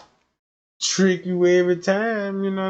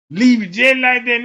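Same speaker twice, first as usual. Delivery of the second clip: higher, louder repeat of Leave it just like that; 7 semitones higher, 9 dB louder than usual. Retold or imitated. Comedian repeating the line loud for the audience. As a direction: belt the line back at the crowd.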